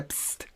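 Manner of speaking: short hissed "psst" with no voice; whispered psst. Shown as a demonstration. Calling to a woman across the street, a hiss. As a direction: hiss "psst" to get attention. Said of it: "We say".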